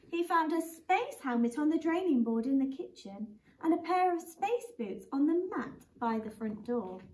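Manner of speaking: put-on reading a picture book to children; lively storybook read-aloud; gently voiced bedtime story; story narration. Teacher reads a picture book aloud.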